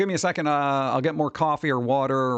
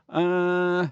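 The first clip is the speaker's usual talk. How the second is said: put-on British accent; 5 semitones higher than usual. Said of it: "that was supposed to be a British accent".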